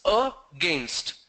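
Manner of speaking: against broken into "a, gainst"; two syllables. Shown as a demonstration. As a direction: say against as two separate beats. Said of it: "two syllables".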